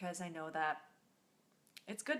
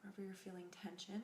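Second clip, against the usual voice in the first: soft, unhurried meditation voice; guided meditation; 6 dB quieter than usual. Acted. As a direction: guide them gently through the breath, leaving long pauses.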